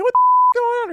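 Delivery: very high, loud mock outburst; hammed-up shriek of disbelief; retold startled yell. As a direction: imitate a bewildered shout from afar. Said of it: "Then you hear Jamal say".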